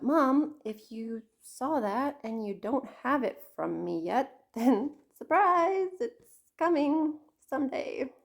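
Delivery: laughing surprise; surprise call-out. Real, not acted. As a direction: reveal a surprise to Mom, laughing. Calls out to her mom.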